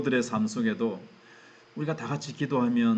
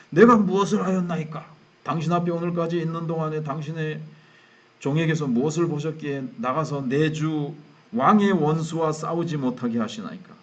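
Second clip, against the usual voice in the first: higher-pitched, hammed-up plea of innocence; feigned protest; 3 semitones higher, 4 dB louder than usual. David pretending to Achish that he wants to fight, feigned indignant protest. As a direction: protest as if wronged, loud at the start. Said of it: "연기".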